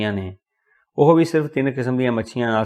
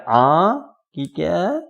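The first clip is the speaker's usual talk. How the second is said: put-on higher, straining old clerk asking again; hard-of-hearing old clerk; 6 semitones higher, much slower than usual. A narrator's reading. Deaf old clerk asks the narrator to repeat, higher voice. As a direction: cup the ear and ask what he said. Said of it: "ਕੰਨ 'ਤੇ ਹੱਥ ਰੱਖ ਕੇ ਪੁੱਛਿਆ".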